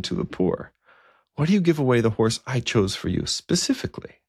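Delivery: a lightly voiced king asking why; questioning king. King questions bishop over horse.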